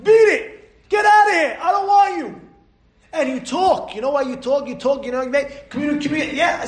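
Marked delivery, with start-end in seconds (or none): 0.0-2.4 high, loud get-out-of-my-life shout; shouting high at the tempter; strong rebuke. Shown as a demonstration. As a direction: push the temptation out. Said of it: "You say".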